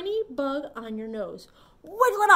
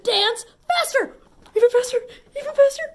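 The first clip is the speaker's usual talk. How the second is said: excited; 11 semitones higher, 12 dB louder, faster than usual. Acted. Urging kids to dance faster.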